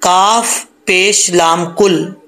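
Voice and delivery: slow letter-by-letter spelling. Shown as a demonstration. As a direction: spell it out slowly. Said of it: "नून ख़त्म कर देंगे".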